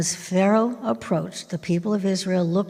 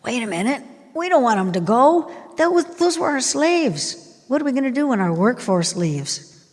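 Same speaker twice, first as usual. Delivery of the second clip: raised, louder voice of Pharaoh's court; alarmed second thoughts; 6 semitones higher, 3 dB louder than usual. Acted. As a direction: protest in sudden alarm at losing the slaves. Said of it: "had a change of heart".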